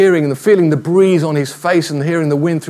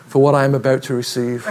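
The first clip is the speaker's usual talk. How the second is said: lower, understated mock prayer; bear saying grace; 4 semitones lower, 3 dB quieter, faster than usual. Bear kneels in prayer before eating, understated pious voice. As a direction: say grace piously, a touch low. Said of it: "puts his hands together and says".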